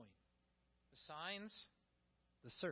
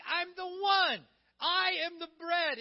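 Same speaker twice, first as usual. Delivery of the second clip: loud, slow, higher insistence; emphatic Jesus; 6 semitones higher, 7 dB louder, slower than usual. Acted. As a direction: plant each word as Jesus. Preacher voices Jesus insisting.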